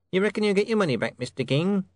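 high, quick questioning clerk; curious clerk. Acted. Clerk asks the king about his money, curious.

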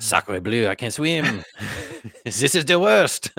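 light mock French accent, rising; a hint of a French chef, drowning. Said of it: "Frenchmen are known for their lack of ability to swim".

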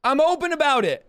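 lightly voiced Jesus, fed up with being questioned; voicing Jesus, exasperated. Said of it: "Jesus is like".

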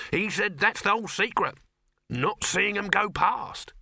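high-pitched, emphatic hawker; know-all street vendor. Acted. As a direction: reveal the secret with a salesman's relish. Dibbler reveals the supposed secret.

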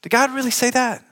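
serpent's sly question. Retold or imitated. Preacher voicing the serpent's sly question to Eve. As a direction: tempt them like the serpent, sly and high. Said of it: "What did he say?".

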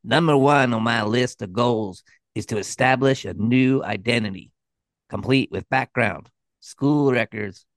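nasally nerd voice, lightly done; a hint of a whiny nerd; nasal nerdy voice. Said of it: "this really nasally, nerdy voice".

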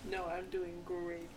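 slow, drawn-out sarcastic reply. Real, not acted. Insisting to the podcast host they're fine, sarcastic. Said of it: "That sounds so sarcastic".

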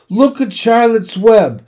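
high, loud exclamations; excited cry. A narrator's reading. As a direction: cry out the discovery, drawing out the end. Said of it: "cried Fern".

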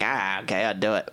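low, soft reluctant Wahlberg voice; grudging agreement, low and quiet; Mark Wahlberg impression. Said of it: "Is that a good Mark Wahlberg impression?".

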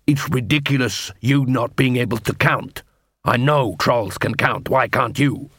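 lightly voiced dwarf constable; grudging dwarf. Dwarf constable scolds troll partner over counting, mildly grudging. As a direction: lecture your partner with a touch of grudge.

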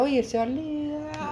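high-pitched imitation of pals calling out; friends' greeting. Old friends hail him by nickname when they meet, high imitated greeting. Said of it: "cuando me junto con ellos todavía".

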